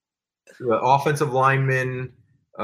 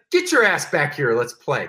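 mock mad demand. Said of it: "he was mad".

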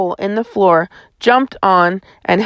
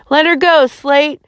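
higher-pitched, contained shout; shouted command; 7 semitones higher than usual. A narrator's reading. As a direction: order him off her. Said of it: "the colonel shouted".

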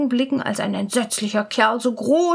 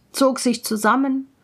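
usual speaking voice

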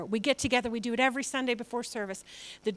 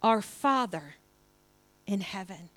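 prayerful reading; 4 semitones lower than usual. Shown as a demonstration. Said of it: "it starts like this".

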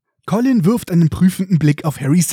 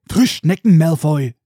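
angry; 4 dB louder than usual. Acted. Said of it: "Ron entgegnet zornig".

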